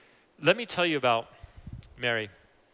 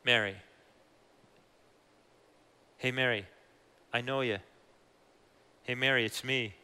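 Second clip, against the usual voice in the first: tender. Acted. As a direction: reassure her gently that it's you. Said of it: "a really tender moment".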